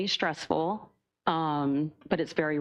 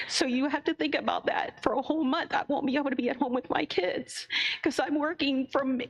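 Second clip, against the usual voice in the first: real upset, voice pitched high; getting emotional; 7 semitones higher than usual. Real, not acted. Bus driver tells the board about working two jobs, emotional and high-pitched. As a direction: plead through rising emotion, voice climbing high then easing down. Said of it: "I get really emotional about it".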